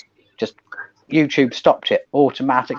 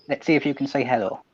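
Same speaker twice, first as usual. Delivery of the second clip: soft, quick coaxing to a pet; 7 dB quieter, faster than usual. Real, not acted. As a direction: coo gently at the puppy. Coaxing the dog on camera.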